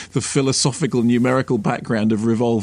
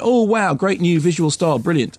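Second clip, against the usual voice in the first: gushing "wow", a mild mock rave; mock gushing praise; 3 semitones higher than usual. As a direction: play the dazzled critics. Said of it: "and everyone went".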